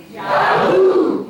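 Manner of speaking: loud, high crowd shout; the audience yelling back on cue; crowd yells Yahoo. Real, not acted. Audience shouting the cue word on command. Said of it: "Can we try it?".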